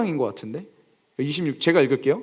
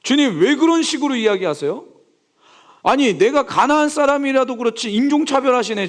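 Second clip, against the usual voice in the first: higher, lightly angry complaint to the Lord; mock indignant retort; 6 semitones higher than usual. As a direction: sound offended at the insult, half-acted. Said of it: "얼마나 화가 나고 분노가 치밀어 오르겠냐고요". (억울한 듯 따지는 흉내)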